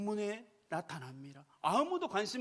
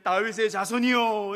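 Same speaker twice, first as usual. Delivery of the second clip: calling out; 9 dB louder, slower than usual. Acted. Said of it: "이렇게 부르는데".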